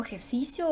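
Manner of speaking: ejercicio as e-jer-CI-cio, questioning. Shown as a demonstration. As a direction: stress CI and keep final IO together in ejercicio. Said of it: "¿O cómo es?".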